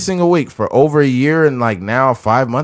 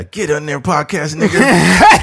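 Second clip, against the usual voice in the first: mock slave master; 5 semitones higher, slower than usual. Acting slave master bit.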